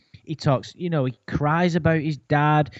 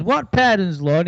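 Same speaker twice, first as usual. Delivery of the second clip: mock questioning; 4 semitones higher than usual. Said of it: "she goes".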